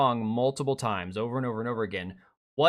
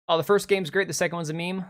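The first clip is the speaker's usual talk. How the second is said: mock quote; 5 semitones higher, 3 dB louder than usual. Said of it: "mocking quote".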